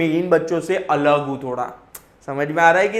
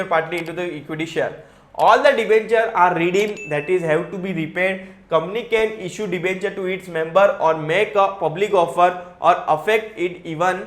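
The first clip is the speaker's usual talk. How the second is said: measured textbook read-aloud; slow reading of the law; much slower than usual. Acted. Teacher reading the SEBI rule to students, slow and even. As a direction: read the provision out slowly and evenly. Reading provision text slowly.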